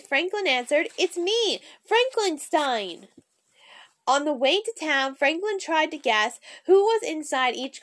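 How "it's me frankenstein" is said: lightly spooky, very slow monster voice; a hint of a creepy monster, drawn out slowly. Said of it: "In his deepest, spookiest voice".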